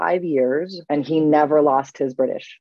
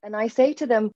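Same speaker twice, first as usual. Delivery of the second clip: ordinary talk, nothing marked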